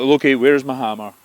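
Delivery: a booming Thor asks where it is; loud demand. Acted. Thor to Loki, demanding his hammer loudly.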